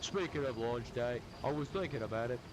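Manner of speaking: put-on Australian accent. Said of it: "I don't know why I made him Australian".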